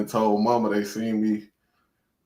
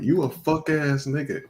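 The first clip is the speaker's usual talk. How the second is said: retold angry yelling; 6 semitones higher than usual. Retelling an angry woman in the club, mock yelling. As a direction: imitate her indignant accusation. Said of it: "yelling, ye-, yelling".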